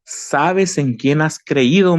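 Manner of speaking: God's rebuke. Retold or imitated. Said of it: "Dios me reprendió y me dijo".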